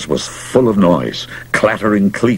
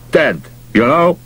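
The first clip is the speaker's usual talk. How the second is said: gruff pushy manager; 2 semitones higher than usual. Acted. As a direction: push hard like a desperate manager. Mouth pleading, desperate.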